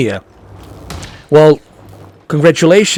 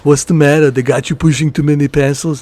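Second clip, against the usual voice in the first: Arnold impression; 2 semitones higher than usual. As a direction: bark it like an action hero. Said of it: "I saw Predator".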